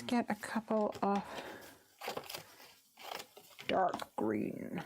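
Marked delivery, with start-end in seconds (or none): 3.7-4.8 deep booming gladiator voice. Acted. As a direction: boom it out like a gladiator in the arena. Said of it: "That was my gladiator voice".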